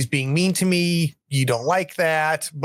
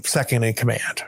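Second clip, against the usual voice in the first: sarcastic; 3 semitones lower than usual. Retold or imitated. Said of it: "she says it very sarcastically".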